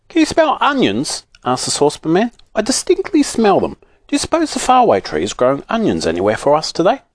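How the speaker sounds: put-on very high, eager old man; saucepan man voice. Old saucepan man to his friend, very high and eager. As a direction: sniff about hungrily in a squeaky voice.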